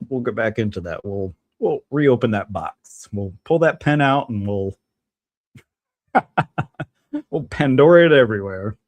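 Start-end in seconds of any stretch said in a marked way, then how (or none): 6.1-6.8 high chuckle breaking off the sentence; short burst of laughter; wordless, amused cackle. Real, not acted. Laughs mid-sentence at his idea.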